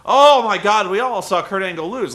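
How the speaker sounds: excited gasp, then it settles; mock gasp. Fan imagining Kurt Angle losing, mock gasp. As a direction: play a fan gasping at a near fall.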